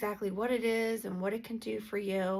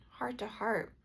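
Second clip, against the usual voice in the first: soft whisper; 4 dB quieter than usual. Real, not acted. Gentle invitation to viewers.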